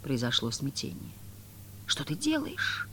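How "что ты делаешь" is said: high, slow anguished cry. A narrator's reading. The master cries out to Margarita, anguished cry. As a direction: cry out in pain at her. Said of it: "страдальчески прокричал мастер".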